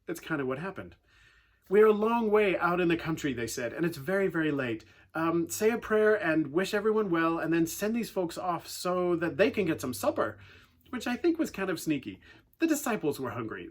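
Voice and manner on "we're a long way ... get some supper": whiny request. Retold or imitated. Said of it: "a whiny way of saying".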